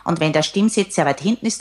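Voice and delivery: hollow, throaty demo voice; lightly voiced Kermit sound; tinny back voice. Shown as a demonstration. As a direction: voice placed far back, tinny. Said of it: "dann klingt das auch ein wenig blechern".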